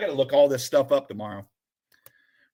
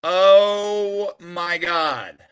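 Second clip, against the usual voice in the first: slow, louder awed "Oh my God"; 5 dB louder, much slower than usual. Real, not acted. Admiring the card he loves, slow awestruck sigh. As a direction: let it out slowly in awe. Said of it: "I am in love with this card".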